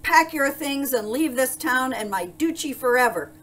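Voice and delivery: angry shout. A narrator's reading. Duke banishing the baker, shouting angrily. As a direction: shout it as a furious order. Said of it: "shouted the Duke".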